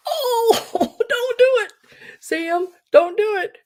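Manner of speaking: high, pleading through a laugh; laughing mock plea. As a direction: beg him to stop while cracking up. Retold plea to the man.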